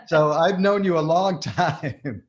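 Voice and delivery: giggling delight at the coincidence; laughing. Real, not acted. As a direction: laugh your way through it.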